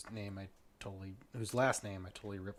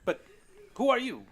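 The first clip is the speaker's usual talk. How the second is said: halting British gentleman, rising at the end; eccentric British lord; 6 dB louder than usual. Acted. Lord explains his holiday and questions strangers, halting and British. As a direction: fumble politely, then ask pointedly.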